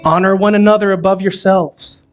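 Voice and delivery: measured reading with long pauses between phrases; unhurried scripture reading, letting each phrase rest. Real, not acted. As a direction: read the verse slowly, phrase by phrase. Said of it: "I'm gonna read it slower".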